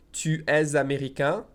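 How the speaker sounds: spoken slowly with the liaison; said slowly, question rise at the end; slow careful French question. Shown as a demonstration. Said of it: "I'm saying this slowly".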